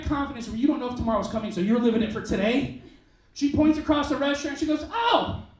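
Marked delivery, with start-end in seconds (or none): 4.9-5.4 high, loud, slow imitation of a proud old lady; old woman announcing it boldly; confident old woman. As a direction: point and say it with total confidence. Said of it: "with the most confidence I have ever seen".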